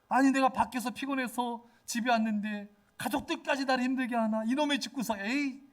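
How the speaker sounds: irritated outburst. Acted. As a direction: play a tired, fed-up homecomer venting. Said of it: "승질 낸 적 있지 않습니까". (높은 톤으로 짜증 내는 흉내)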